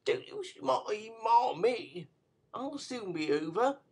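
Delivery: put-on high, tired young woman's voice; a lightly voiced exhausted girl; weak girl. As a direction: reassure him faintly. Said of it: "said the girl".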